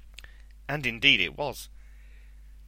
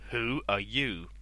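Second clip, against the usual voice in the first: booming Cyclops voice; slower than usual. A narrator's reading. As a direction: boom it out like a giant. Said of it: "The Cyclops spoke with a booming voice".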